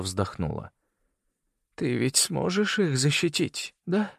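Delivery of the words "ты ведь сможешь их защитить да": high, slow, fragile woman's plea; a dying mother begging for her children; dying woman, pleading. A narrator's reading. Celeste pleading with Leo, high and slow.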